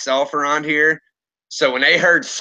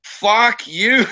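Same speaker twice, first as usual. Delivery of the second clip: higher-pitched retold outrage; indignant retelling of telling someone off; retold losing it; 4 semitones higher than usual. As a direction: replay an angry confrontation, moderately worked up. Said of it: "And I lost it".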